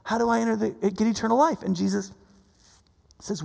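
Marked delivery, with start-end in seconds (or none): 0.0-1.6 soft, lightly voiced supplicant; pleading devotee. Rich guy kneeling before Jesus, softly pleading. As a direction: imitate a humble, hushed plea. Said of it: "falls at his feet, like, on his knees".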